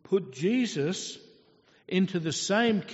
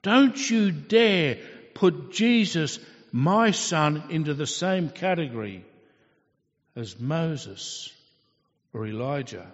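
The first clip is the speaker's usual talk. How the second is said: a stern rebuke that settles down at the end; frustrated God; 5 dB louder than usual. Acted. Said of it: "You can almost hear the frustration".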